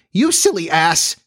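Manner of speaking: high, slow fairy voice; insolent fairy. A narrator's reading. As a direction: stretch the insult in a high fairy voice. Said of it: "Again, Tink replied".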